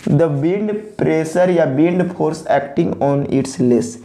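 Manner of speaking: very slow, every word drawn out for copying; dictation pace. Shown as a demonstration. Teacher dictating the definition for students to copy, very slowly. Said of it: "copy भी करेंगे pause करके".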